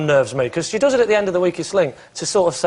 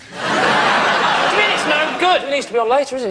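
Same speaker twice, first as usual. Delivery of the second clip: high, drawn-out outraged mimicry; Anne Robinson; 8 semitones higher than usual. TV presenter objecting to supposed scheduler's verdict, exaggerated indignation. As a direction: put on an affronted voice, pitched up. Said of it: "Is that how she really talks?".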